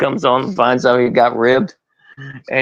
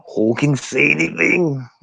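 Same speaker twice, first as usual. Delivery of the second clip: Macho Man impression; 4 semitones higher than usual. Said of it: "Macho Man story".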